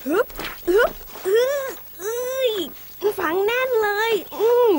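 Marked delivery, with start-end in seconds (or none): 0.7-2.5 slow, drawn-out effort groans; straining grunts. Acted. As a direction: heave with all your strength. Heaving hard at the ground.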